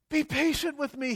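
high pleading plea, a touch hammed; begging servant. The servant begs his master, pleading high. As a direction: beg the master for time. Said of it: "he begged".

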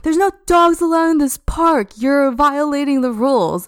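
high-pitched scolding impression; the angry woman lecturing about park rules, high mock voice; mock screaming woman. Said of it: "starts screaming at me".

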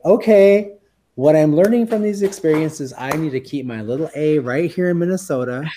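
loud, high-pitched resolution; emphatic self-quote. Retold or imitated. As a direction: burst out with a firm decision. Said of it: "and I was like".

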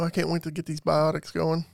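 talking through a swollen mouth; words mushed by a puffy cheek. Real, not acted. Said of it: "my mouth is all swollen".

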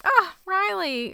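high, drawn-out lament; gutted. Real, not acted. Viewer mourning a favorite character, gutted. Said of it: "that just gutted me".

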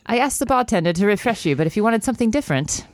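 put-on unconvincing British accent that could pass for Irish; bad British accent. Man explaining the drink he ordered her, bad British accent. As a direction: have a poor go at a British accent. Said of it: "my accent is horrible".

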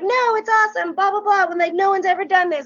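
high, gushing reassurance; imitated enthusiasm. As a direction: mimic a thrilled band member waving off the apology. Band reassuring fan, acted out.

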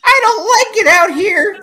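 put-on high, slow whiny baby; newborn voice. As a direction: whine like a newborn. Playing the newborn.

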